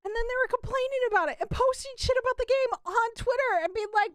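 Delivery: exasperated rant. Real, not acted. Ranting about developers breaking NDAs.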